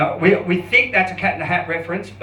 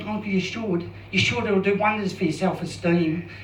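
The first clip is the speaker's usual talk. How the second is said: stereotypical gay voice; 5 dB quieter than usual. Retold or imitated. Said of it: "I'll just do a stereotypical gay one".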